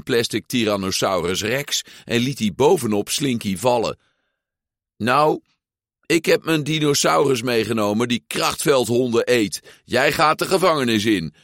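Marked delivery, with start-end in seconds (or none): 5.0-11.3 higher, louder triumphant toy sheriff; proclaiming sheriff. Acted. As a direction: announce victory like a proud lawman. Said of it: "verkondigde sheriff Woody".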